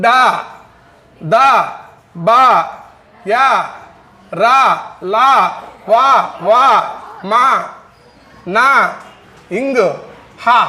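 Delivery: డా, దా, బా, యా, రా each said alone and distinct; repeat drill. Shown as a demonstration. Teacher repeating the voiced sounds for students, spaced out. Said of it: "మరొకసారి చెప్తాను".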